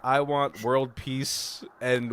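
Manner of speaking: drawn-out acted request; slow earnest wish. Blind man naming his demand to the agent, slowly earnest. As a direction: state the wish slowly and deliberately. Retold wish in film negotiation.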